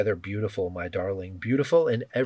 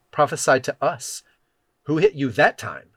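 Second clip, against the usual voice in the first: higher, louder jeering taunt; mocking guards; 4 semitones higher, 5 dB louder than usual. A narrator's reading. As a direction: taunt a blindfolded prisoner. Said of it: "began mocking and beating him".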